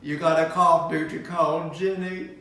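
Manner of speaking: Forrest Gump. Retold or imitated. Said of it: "horrible Forrest Gump impersonation".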